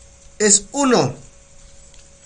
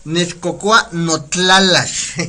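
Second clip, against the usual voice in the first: slow model phrase; 2 semitones lower, slower than usual. Shown as a demonstration. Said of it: "teacher models the full Nahuatl phrase".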